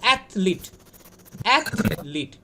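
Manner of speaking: অ্যাথলিট as "ath-lit"; two clean syllables in অ্যাথলিট; no vowel between "th" and "l" in অ্যাথলিট; model pronunciation. Shown as a demonstration. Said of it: "এটা উচ্চারণ আমরা করবো".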